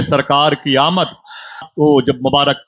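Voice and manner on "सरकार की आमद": louder call. Shown as a demonstration. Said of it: "ऊंची बोलें".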